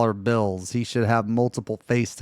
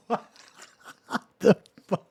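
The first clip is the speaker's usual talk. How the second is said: surprised; 8 semitones higher, much faster than usual. Real, not acted. Reacting to odd news clip.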